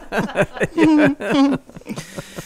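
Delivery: high, effeminate little nervous giggle; nervous laugh. Shown as a demonstration. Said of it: "effeminate little nervous laugh".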